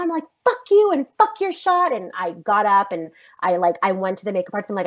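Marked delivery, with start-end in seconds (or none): 0.4-1.9 high-pitched, heated retort; angry retort. Retold or imitated. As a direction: throw the insult back, acting out the fight. Acted quarrel on set.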